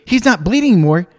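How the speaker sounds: Alex. Retold or imitated. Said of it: "she looked at me and she goes".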